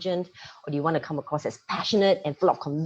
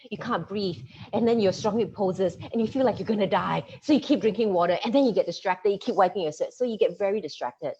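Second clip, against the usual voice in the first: yoga master; 3 semitones higher, 4 dB louder than usual. Retold or imitated. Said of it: "He says".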